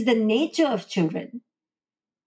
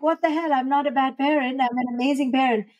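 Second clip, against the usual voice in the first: higher, mock-offended protest; indignant outburst; 4 semitones higher, faster than usual. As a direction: play the hurt, defensive parent snapping back. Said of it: "So you're like".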